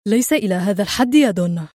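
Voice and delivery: mildly irritated objection; a touch of weary protest; annoyed. Acted. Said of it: "وهو يقول في ضيق".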